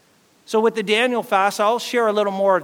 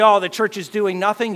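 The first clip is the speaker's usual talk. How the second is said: mock complaint; 4 dB louder than usual. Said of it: "When you say".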